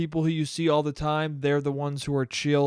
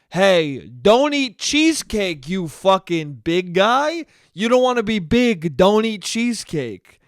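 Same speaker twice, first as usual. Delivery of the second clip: slow lightly voiced Cuomo scolding; half-hearted Cuomo lecture; mock Cuomo. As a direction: drag it out like a scolding uncle. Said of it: "Cuomo went from".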